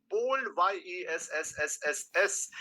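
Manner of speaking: hissing out a long yesss; drawn-out s like a snake. Shown as a demonstration. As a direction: stretch the final s into a hiss. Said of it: "spam my chat with a massive, massive, massive yes".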